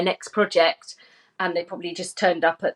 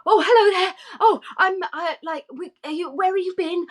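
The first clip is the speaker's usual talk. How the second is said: a hint of a chatty Welsh actor, pitched higher; sketchy Welsh babble, not a real accent; Reese Ifans impression; 10 semitones higher than usual. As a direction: lightly mimic his rambling hello. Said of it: "I can't do a Welsh accent".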